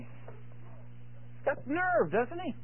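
whispered, slow and hushed; slowed-down whispered marvel; hushed aside. Real, not acted. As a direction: lean in and breathe it to the congregation. Preacher marvels at Jacob's boldness.

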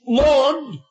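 high, slow, incredulous protest; Peter remonstrating. Acted. Peter protesting as the Savior comes to him, remonstrating. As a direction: object in drawn-out disbelief, rising at the end. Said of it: "Peter remonstrates".

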